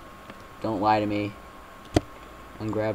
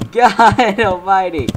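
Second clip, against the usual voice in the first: exasperated; 8 semitones higher, 9 dB louder, slower than usual. Real, not acted. Fails again.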